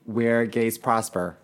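slow, measured storybook narration; fairy tale style. Pretend. Guest telling story on request, mock fairy-tale narration. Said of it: "Add some fucking fairy tale style into it".

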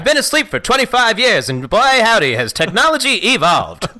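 put-on gee-whiz old newsreel delight; 1940s newsreel announcer. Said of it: "Nineteen forties documentary news announcer".

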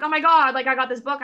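high, loud mock surprise; surprised friend. Friend getting a book in the mail, surprised. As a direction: squeal at an unexpected gift.

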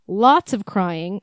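"lots of crying" drawn out slowly for emphasis; emphatic. Real, not acted. Co-host reading out February's advice, slow emphasis on "lots of crying". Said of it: "I'm emphasizing crying a lot".

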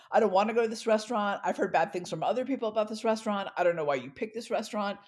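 mock his irritated outburst; retold angry yelling. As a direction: boyfriend ranting on the street, retold as a mild yell. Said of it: "he's practically yelling at me".

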